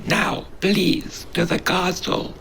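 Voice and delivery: high, whispery little creature in awe; a tiny creature breathless with excitement; starstruck creature voice. Acted. Creature urges hero to castle.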